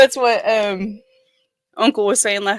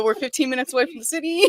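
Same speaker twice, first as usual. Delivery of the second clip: 웃으며 말하기; 4 semitones higher, faster than usual. Real, not acted. Joking about El Reno's merits.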